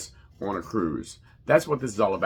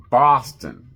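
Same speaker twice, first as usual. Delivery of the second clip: a slight Boston accent on "Boston", said as "Bahstan" with the r dropped; 6 dB louder than usual. Real, not acted. Cruise host naming the home port, faint Boston accent on "Boston". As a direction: let "Boston" slip out a little Boston-accented, "Bahstan". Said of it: "I kinda sound like I'm from Boston when I say Boston".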